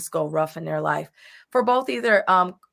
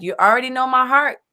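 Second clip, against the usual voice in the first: higher and louder, earnest insistence; pleading with God; 8 semitones higher, 5 dB louder, faster than usual. Retold or imitated. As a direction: protest to God in a raised, pleading voice. Quoting a believer pleading to God.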